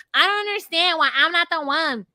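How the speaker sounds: put-on wounded indignation; mock upset. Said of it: "And then she's mad".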